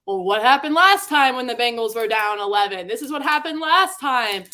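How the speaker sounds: hammed-up fan chorus, pitch climbing; mock hype. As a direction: parrot the excited crowd online. Mimicking everyone's excited tweets.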